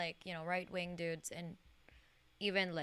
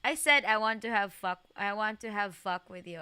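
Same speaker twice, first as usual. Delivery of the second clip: louder retake of the line; loud repeat; 6 dB louder than usual. Shown as a demonstration. Viewer asked for one more time, louder read. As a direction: say it again, punchier. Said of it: "One more time".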